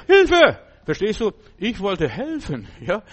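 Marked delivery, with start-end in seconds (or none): 0.1-0.6 shrill high scream for help, much louder; old woman screaming. Retold or imitated. Old woman yelling for help at the helper. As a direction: shriek "Hilfe!" like a startled old woman. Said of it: "Dann schreit sie".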